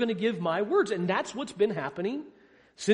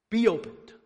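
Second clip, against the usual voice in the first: a firm, commanding "Be opened"; sovereign command; 2 semitones higher, 4 dB louder than usual. Acted. Jesus commanding the deaf man's ears to open. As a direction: speak "Be opened" as the King of the universe. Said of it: "That's a word of sovereign authority".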